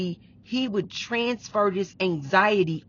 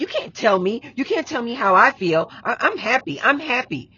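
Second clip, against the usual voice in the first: higher, raised voice insisting on being fine; retold quarrel, pitched up and insistent; imitated indignant protest; 4 semitones higher, 4 dB louder than usual. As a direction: argue back as the defensive partner. Voices partner arguing back.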